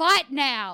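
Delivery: loud, jokey yell. Retelling what the dad yelled as a joke: imitating the dad yelling. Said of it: "the dad at one point also yelled".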